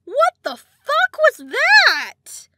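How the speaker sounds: slow, high muffled scream; screaming into pillow. Real, not acted. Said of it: "let me scream into a pillow".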